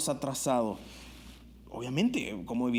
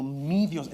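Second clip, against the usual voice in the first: "Mi" leaned on, louder than "Dios"; stress on mi; 4 dB louder than usual. Shown as a demonstration. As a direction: hit the word "Mi" firmly. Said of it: "esta palabra "mi". (énfasis en "Mi")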